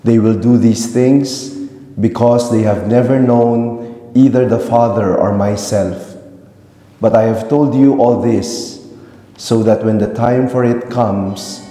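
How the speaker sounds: reverberant church acoustics; cathedral echo. Real, not acted. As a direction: voice ringing through a big church. Gospel read in resonant church.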